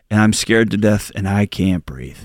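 a frightened wife opening up; scared confession. Retold or imitated. Wife confessing fear to her husband, low and scared.

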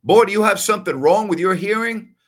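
loud, high Southern scolding; Southern drawl. Retold or imitated. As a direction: imitate an exasperated Southern uncle. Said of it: "He had that Southern drawl".

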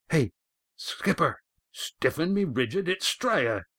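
a touch of a cheery boatman; hearty sailor's hail. A narrator's reading. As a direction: call it up to the skipper like an old seadog. Red Ian hails the skipper.

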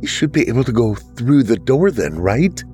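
lightly voiced girl with a spark of hope; hopeful. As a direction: reach for a way out, hopeful. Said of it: "a spark of hope in her voice".

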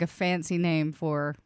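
ordinary talk, nothing marked

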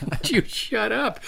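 slow, high, strained squeak of a plea; begging the drunk friend to stop talking; exasperated plea. Retold or imitated. High, slow exasperated mock plea. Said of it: "It's like".

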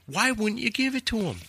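high-pitched pleading question; incredulous protest. Retold or imitated. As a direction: argue back in disbelief. Acting argument with station boss.

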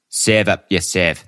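"serve" said Aussie-style as "sev", no r; Australian accent. Pretend. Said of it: "Can't say that Australian".

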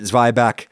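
Zwieback as ZVY-back; American pronunciation. Shown as a demonstration. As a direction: say Zwieback with an eye vowel first. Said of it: "an established United Statesian pronunciation".

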